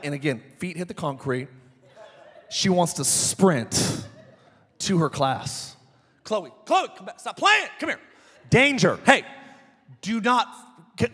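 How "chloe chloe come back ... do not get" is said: raised dad voice calling out; a dad hollering after his kid; calling after child. Retold or imitated. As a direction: call her back across the parking lot. Dad calling after running daughter.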